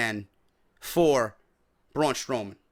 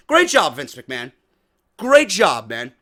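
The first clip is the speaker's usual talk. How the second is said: sarcastic praise; 4 semitones lower, 5 dB louder than usual. Real, not acted.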